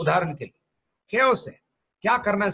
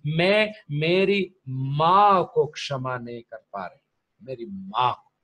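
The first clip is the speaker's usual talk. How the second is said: put-on girl's confession; 4 semitones lower, slower than usual. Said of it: "उसको लगा जुबान से बोलने".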